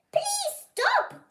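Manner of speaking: high loud plea, voice close to breaking; crying out. Acted. Girl pleading with the giants to stop, crying out. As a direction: beg them to stop with everything. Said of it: "Greta cried".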